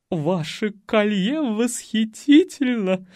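slow, high admiring coo; admiring old lady. A narrator's reading. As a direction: drawl out the compliment. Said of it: "включилась в беседу Кока".

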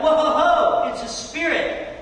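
loud startled whoa, hammed-up; startled disciples. Disciples seeing Jesus pop into the locked room, mock startled. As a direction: jump back, playfully spooked. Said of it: "And they're like".

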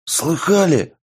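tense whisper-shout; nervous hushed shout. A narrator's reading. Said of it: "нервно прошептал Шуст".

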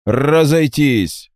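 commanding order. A narrator's reading. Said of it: "приказал нелюдям".

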